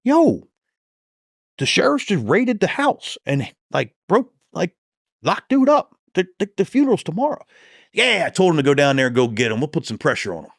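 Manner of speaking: high, pleading, panicked rant; frantic complaint. Retold or imitated. Rookie calling the county detective after the raid, high panicked pleading. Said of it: "I said".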